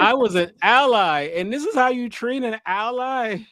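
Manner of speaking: high, loud outraged squeal; mock indignant victim voice; betrayed victim. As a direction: squeal like a wronged friend. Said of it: "Be like".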